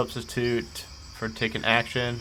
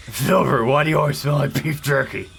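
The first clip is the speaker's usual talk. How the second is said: lightly voiced sneering shadow; shadow impression; 4 dB louder than usual. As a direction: tease like a lurking shadow. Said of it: "Is that a good shadow impression?".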